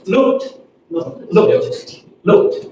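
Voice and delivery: "looked" ending in a crisp t. Shown as a demonstration. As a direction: model "looked" as one syllable closed by t. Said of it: "pronounce the E D as t".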